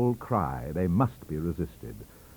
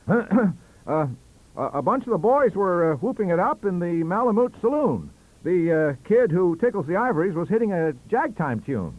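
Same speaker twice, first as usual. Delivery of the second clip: reciting; 10 semitones higher, 6 dB louder than usual. Acted. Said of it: "launched at once into".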